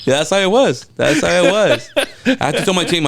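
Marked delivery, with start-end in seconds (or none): 0.0-1.9 excited confirmation. Real, not acted. Confirming with laughter.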